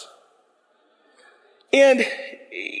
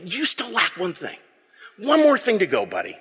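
gentle friendly Jesus. Pretend. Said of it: "That's what I think he would say".

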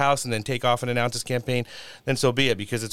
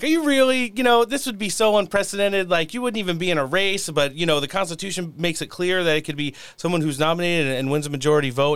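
quoting interviewers; 5 semitones higher than usual. Retold or imitated. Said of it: "'cause they were like".

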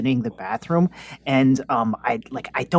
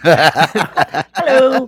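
laughing hello; 7 semitones higher, 5 dB louder than usual. Pretend. Laughing hello through stall door.

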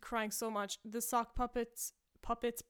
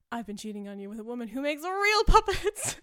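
much louder, crying with laughter; laugh-yelling; 2 semitones higher, 12 dB louder than usual. Retold or imitated. Husband confessing to wife, loud and laughing helplessly. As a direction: shout it while cracking up. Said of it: "And he's like".

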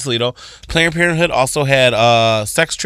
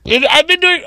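high mock quote; 14 semitones higher, 3 dB louder than usual. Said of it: "I was like".

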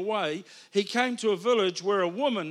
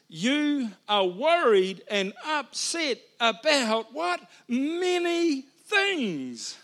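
teasing Jesus voice; 4 semitones higher, 4 dB louder, slower than usual. Acted. Mocking Jesus's words to Martha.

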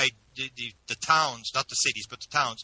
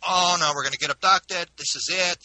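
retold panic; 5 semitones higher, 4 dB louder than usual. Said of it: "It was just absolute panic".

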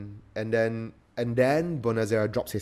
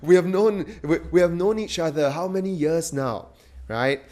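higher and louder mock Don with a laugh; Godfather voice; 7 semitones higher, 6 dB louder than usual. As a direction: ham up the Godfather, laughing through the name. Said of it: "in his Godfather voice".

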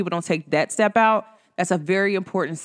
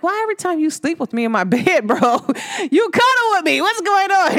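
hammed-up big-sister complaint, pitched way up; mock exasperated; 9 semitones higher than usual. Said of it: "I'm like".

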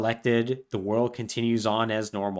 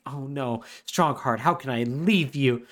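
mock sad farewell; slower than usual. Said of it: "who's, like, incredibly sad".

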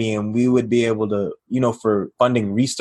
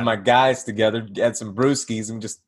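casual; 2 semitones lower than usual. Retold or imitated. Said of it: "like, just casually".

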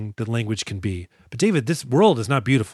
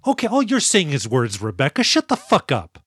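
mock exasperation; 2 semitones higher than usual. Real, not acted. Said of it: "I hate this".

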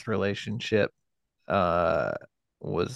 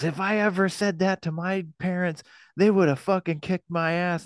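higher voice, mocking the scolding mother; mimicking his mother; 9 semitones higher than usual. Son imitating his mother scolding him, mocking indignant voice. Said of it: "and she goes".

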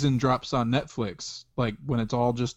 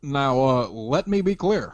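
a hint of Obama, measured; lightly voiced presidential cadence; mock presidential address; Obama impression. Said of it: "white Barack".

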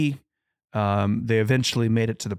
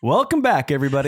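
excited greeting; 3 semitones higher, 4 dB louder, much faster than usual. Real, not acted. Playful re-greeting after laugh.

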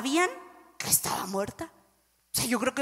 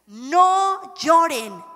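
slow comfort; 3 semitones higher, 3 dB louder, much slower than usual. Acted. Jesus comforting the mourners.

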